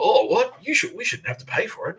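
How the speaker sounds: high, squeaky mock protest; mock indignant. Shop owners balking at paying for the bird hunt, mock indignant.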